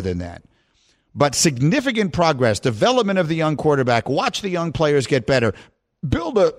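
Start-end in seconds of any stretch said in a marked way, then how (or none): 6.1-6.5 coughing through the words; something went down the wrong way; choking on a drink. Real, not acted. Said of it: "something went down the wrong way".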